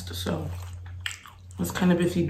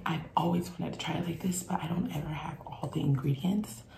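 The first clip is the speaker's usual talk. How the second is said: ASMR whisper. Real, not acted. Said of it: "gonna sound like an A S M R".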